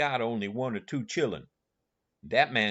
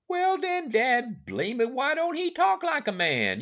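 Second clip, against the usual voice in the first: much higher, louder exasperated Jim; exasperated outburst; 14 semitones higher, 5 dB louder than usual. Acted. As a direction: Jim throws up his hands, loud and high.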